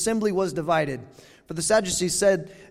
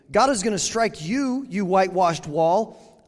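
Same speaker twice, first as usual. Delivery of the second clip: acted Paul rebuke. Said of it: "I think that's how he said it".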